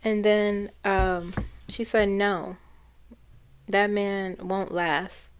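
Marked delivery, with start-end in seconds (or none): 2.1-5.3 slow, drawn-out quote in her manner; her way of speaking. Retold or imitated. Channeler relaying her verdict on Trump, slow imitated delivery. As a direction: stretch it out, lightly imitating her. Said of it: "it's the way she speaks".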